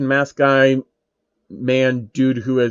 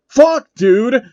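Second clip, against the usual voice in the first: furious yell, higher and louder; angry shout, much higher; scream; 10 semitones higher, 6 dB louder than usual. Acted. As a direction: scream at his own blunder. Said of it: "Phil screamed".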